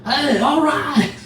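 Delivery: slow, high, loud announcer voice; Harry Carey impression. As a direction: boom it out like an old ballgame announcer. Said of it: "have Harry Carey on the show".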